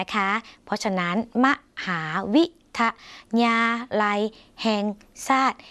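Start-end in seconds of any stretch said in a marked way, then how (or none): 3.4-4.8 ยา, ลัย, แห่ง split apart with pauses; syllable by syllable. Shown as a demonstration. Teacher spelling out the word for viewers, syllable by syllable. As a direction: break the word into separate syllables. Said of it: "เขียนทุกพยางค์".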